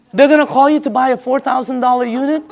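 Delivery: laughing through the words, disbelief rising. Real, not acted. Disbelief at Romy's sales method.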